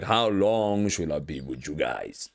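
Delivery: slow, sighing, then a laughing rise; a worn-out teacher asking how long; weary Jesus. Retold or imitated. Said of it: "Jesus was really tired now".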